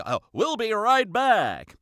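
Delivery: slow, drawn-out show host voice; TV host sign-off. Retold or imitated. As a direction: stretch it like a TV host. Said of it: "they always say".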